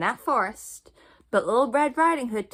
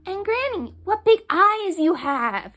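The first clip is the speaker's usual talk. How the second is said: put-on higher, slow, wondering child; surprised little girl; 10 semitones higher, 6 dB louder than usual. Little Red Riding Hood marveling at granny's ears. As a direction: marvel aloud like a small girl.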